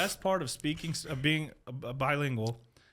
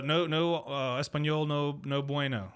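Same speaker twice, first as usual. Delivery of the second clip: feigned non-Spanish speaker; slower than usual. Pretend. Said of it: "I can pretend not to know Spanish".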